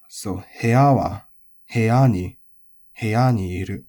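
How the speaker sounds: "heya" rising to "ya", dropping on the particle; tail-high accent. Shown as a demonstration. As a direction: keep "heya" high at the end, then drop on "wa" and "ni". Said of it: "is odaka".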